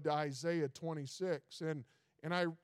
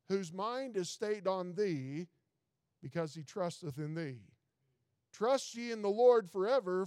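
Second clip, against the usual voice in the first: scripture reading. Acted. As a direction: read each line deliberately and unhurried. Reads scripture aloud.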